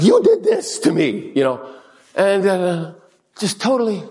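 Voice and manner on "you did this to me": high, loud comic outburst; mock outraged accusation. Acts out outburst at other driver.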